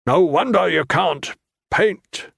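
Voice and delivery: slow, cutting and disdainful; stern monk voice. A narrator's reading. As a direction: drawl it out with cold scorn.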